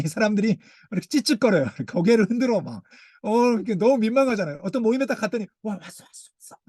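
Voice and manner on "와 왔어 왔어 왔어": mock welcome. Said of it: "이렇게 하는데".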